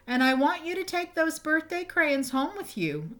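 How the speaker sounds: a stern teacher laying down the rule; teacher scolding. Acted. Teacher scolds Tommy over crayons.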